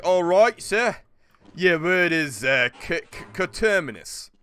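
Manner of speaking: spelling bee announcer. Retold or imitated.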